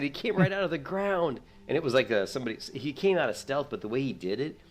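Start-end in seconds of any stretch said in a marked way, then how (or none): 0.0-1.4 high, loud mock alarm; raised, incredulous battle shout; retold frantic yell. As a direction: call it out in replayed panic. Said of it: "I yelled at my brother".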